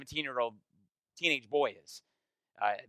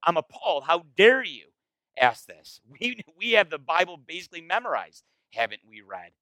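mock appalled. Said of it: "it's like".

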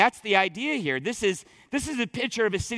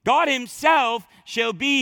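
"God himself" slowed, pushed louder; emphatic God himself; 4 semitones higher, 4 dB louder, slower than usual. Shown as a demonstration. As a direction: punch "God himself" like an exclamation. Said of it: "like, exclamation mark".

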